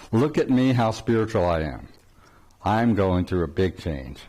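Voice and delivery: mock self-important. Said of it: "so much of that is".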